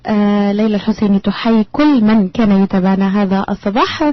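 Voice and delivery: brisk, fast announcer read; quick radio host farewell; radio sign-off. Acted. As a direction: rattle off the show outro.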